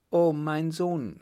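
high, drawn-out motherly cry; joyful mother. A narrator's reading. Mother greeting her son who rescues her, high and joyful. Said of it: "stimmte Frau Richemont bei".

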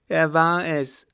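high, loud contradiction; insistent madman. Acted. Mad son contradicting his father, insistent. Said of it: "behauptete der Irre".

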